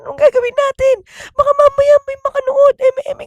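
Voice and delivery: high, rushed frantic pleading; panicked kid. Retold or imitated. Kid warning her cousin about the live stream, high frantic panic. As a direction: babble in a panic to your cousin. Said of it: "Sabi niya, sabi niya".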